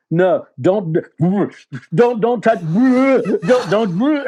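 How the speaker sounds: high, loud alarmed cry of don't; alarmed EMT shouting a warning; urgent warning. Retold or imitated. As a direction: stop him before he touches his face.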